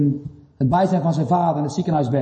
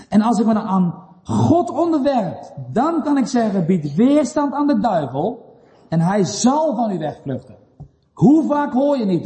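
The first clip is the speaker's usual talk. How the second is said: raised, deliberate preacher's delivery; emphatic preaching; 3 semitones higher than usual. Real, not acted. Preacher urging the congregation to submit to God, emphatic preaching. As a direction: preach it with stretched key words.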